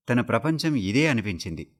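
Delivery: plain reading voice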